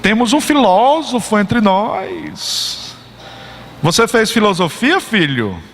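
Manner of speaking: slow, teasing mockery of a student; mocking. Professor mocking the student in class, slow teasing tone. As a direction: sneer at the know-it-all, drawn out. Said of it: "Aí começou a zombar".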